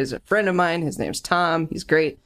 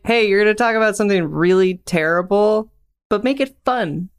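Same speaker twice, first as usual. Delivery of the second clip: higher pitched, playful imagined boss; perky mock request; 5 semitones higher, 4 dB louder than usual. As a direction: pitch it up into a cheery instruction. Voicing an imagined client's request.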